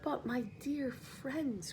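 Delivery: slow, soft, trying to sound cheerful; gently rally tired friends; forced cheer. Acted. Old grasshopper cheers the weary group, slow and soft. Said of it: "cried the old green grasshopper, trying to be cheerful".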